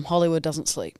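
put-on a light Indian accent, low and drawn; lightly voiced Indian actress accent; Bollywood accent. An aspiring actress hams a Bollywood accent. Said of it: "you are more Bollywood".

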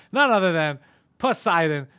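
loud, booming introduction; grand announcer intro. Acted. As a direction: announce him like a star.

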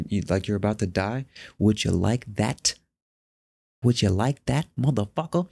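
taunting inner voice; mock the listener like a gleeful tormentor; his anxious brain taunting him; voice of his own brain. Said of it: "your fucking brain is just like".

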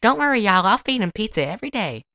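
lightly voiced Southern reassurance; Dolly. Reassuring his family about feeding him pizza, lightly imitated country gal. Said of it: "Dolly says something".

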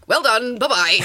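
loud, brisk mock mum; a stoic Scottish mum brushing it off; curt mock parent send-off; imitating mum. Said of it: "She went".

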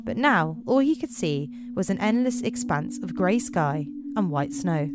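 measured, deliberate read-aloud voice; story narration. A narrator's reading. Narrator introducing Chris on patrol, in story narration. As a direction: set the wintry scene with careful phrasing.

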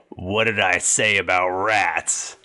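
slow, measured guard reprimand. Acted. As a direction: lightly voice a guard, taking it slowly. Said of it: "He said".

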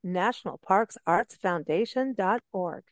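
unhurried, spacing out each word of the web address. Real, not acted. Repeating the plug properly for the host, slow and careful. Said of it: "say that again, but more slowly".

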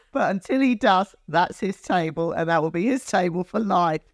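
high-pitched, amused insistence; mock-exasperated, high-pitched explaining; retold insistence. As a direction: retell it pitched well up, laying down the rule. Retold standoff over a regular's table.

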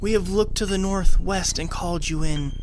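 high, soothing then solemn cult leader voice; Joan's cult speech. Retold or imitated. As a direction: welcome the new king like a devout cultist. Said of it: "Joan says".

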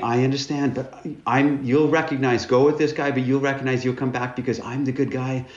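high, pleading, hammed-up tearful voice; mock weeping plea. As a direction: play your younger self begging through tears. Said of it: "I'm weeping and saying".

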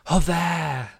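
loud, high mock outburst of Joder; imitating angry swear. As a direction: fling out Joder like the annoyed housemate. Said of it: "she says it like that".

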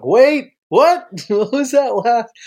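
Wait, what? jumps up high; mock surprise. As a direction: feign shock at what was just said. Mock-surprised at own words.

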